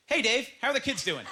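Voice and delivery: same greeting with awkward body language; changed body language. Shown as a demonstration. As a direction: say it while acting weird. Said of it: "let's change the body language".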